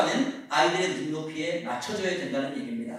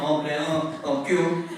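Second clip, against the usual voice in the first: playful cute reply; 4 semitones lower, much slower than usual. Retold or imitated. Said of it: "발로 하트를 딱 만들어주는 거예요".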